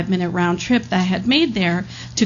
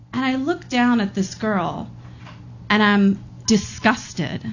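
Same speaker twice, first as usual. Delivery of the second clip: usual speaking voice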